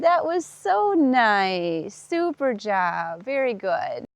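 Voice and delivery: slow, settling praise; soothing praise. Real, not acted. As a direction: wind down from cheer to calm. Calming praise after the step.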